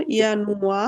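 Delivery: ইয়ানুয়া starting with ya; German pronunciation. Shown as a demonstration. Teacher shows why German January starts with ya, careful pronunciation. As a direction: say ইয়ানুয়া with Y, ending in open a. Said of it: "উচ্চারণ হবে ইয়া".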